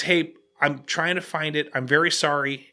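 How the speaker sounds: soft, patient employee voice; calm, apologetic. Retold or imitated. Hotel employee apologizing to an angry customer, calm. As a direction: apologize calmly and a little quietly. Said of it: "being pretty cool and calm".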